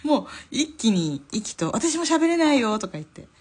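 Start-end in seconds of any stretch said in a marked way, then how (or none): 1.7-2.8 high, loud, stretched-out chime-in; imitating someone happily joining in; retold eager confession. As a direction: call it out slowly and high, as a quote. Retold group eagerly admitting the same.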